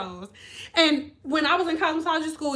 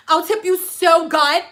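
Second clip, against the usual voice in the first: put-on coaxing old lady; 5 dB louder than usual. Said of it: "they would be like".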